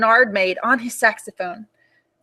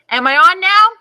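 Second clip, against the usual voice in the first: put-on 1 child voice; 7 semitones higher, 7 dB louder than usual. Ruby tests volume.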